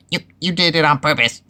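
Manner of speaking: high, loud, indignant splutter; sputtering. A narrator's reading. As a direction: sputter out the accusation. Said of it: "sputtered Piglet".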